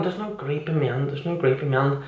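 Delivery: muttered under the breath; quiet disbelieving mutter. Retold or imitated. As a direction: grumble it quietly to yourself. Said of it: "I'm going".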